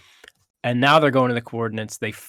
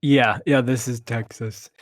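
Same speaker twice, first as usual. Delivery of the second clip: slow put-on Texas drawl; mock Texan drawl; slower than usual. Friend echoing a joke about Texas gun culture, slow mock Texan drawl.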